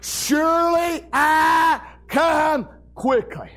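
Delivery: slow, drawn-out preacher's proclamation; solemn quoted proclamation. Retold or imitated. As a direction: stretch each word out and let it ring. Quoting Jesus from Revelation.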